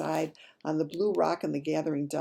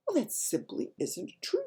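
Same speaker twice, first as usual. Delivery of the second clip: angry protest; 9 semitones higher than usual. A narrator's reading. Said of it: "Sophie cried angrily".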